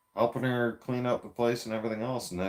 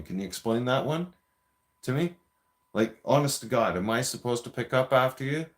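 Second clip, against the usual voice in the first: moderately raised, indignant scolding; retold angry rant; 3 semitones higher than usual. Man berates girlfriend over popcorn bag left in couch, indignant. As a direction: replay chewing her out, a bit heated. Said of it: "I'm pissed off".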